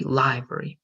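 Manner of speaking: "library" stressed on LI; first-syllable stress. Shown as a demonstration. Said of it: "stress the first syllable".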